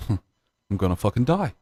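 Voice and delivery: slow, giggling quote; laughing through it. Retold or imitated. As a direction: laugh as you drag it out. Repeating the quote while laughing.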